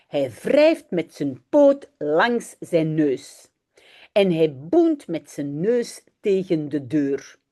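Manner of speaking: put-on reading a children's story aloud in Dutch. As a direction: read it slowly and clearly for learners. (lecture d'une histoire pour enfants)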